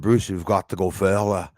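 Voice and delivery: lightly imitated Scottish accent. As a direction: mimic a Scottish caller. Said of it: "I think it was Scottish accent".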